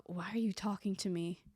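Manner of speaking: whispered, cold brush-off; mock dismissive whisper. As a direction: hiss it like a stranger annoyed at being spoken to. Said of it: "looked at me like".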